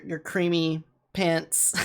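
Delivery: ordinary delivery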